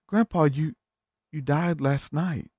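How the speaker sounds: mild mock pleading; pleading family. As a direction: gently break the news. Family tells grandpa.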